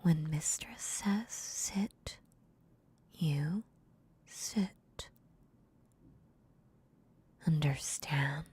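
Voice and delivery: hushed, stern mistress; cold mistress voice. Acted. Mistress punishing her puppy.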